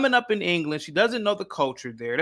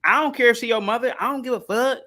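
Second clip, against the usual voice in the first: Meghan Markle; 7 semitones higher than usual. Acted. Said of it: "And she's like".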